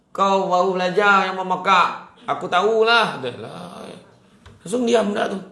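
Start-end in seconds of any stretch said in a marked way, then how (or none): 0.1-3.9 loud, higher scolding; mock angry retort. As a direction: tell off the beginner, hammed-up. Acted quarrel during tadarus.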